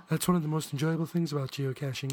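man lightly voicing a woman; a hint of a woman's voice, laughing; girl voice. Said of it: "that's your girl voice".

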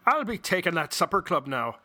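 Scottish brogue. Acted. Cohost voicing the Scotsman from the joke in a Scottish brogue. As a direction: ham up a Scottish accent for the Scotsman. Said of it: "in your best Scottish brogue".

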